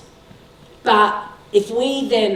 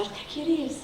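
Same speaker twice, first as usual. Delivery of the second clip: higher, coaxing charm on the teacher; mock charm; 8 semitones higher, 6 dB quieter than usual. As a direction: sweet-talk the teacher into bending the rule. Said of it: "have a little chat and say".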